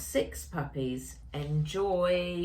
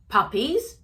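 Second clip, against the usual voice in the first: loud, high, rising "Puppies?"; startled shout; 8 semitones higher, 8 dB louder than usual. Acted. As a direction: grandpa can't believe his ears. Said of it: "shouted Grandpa".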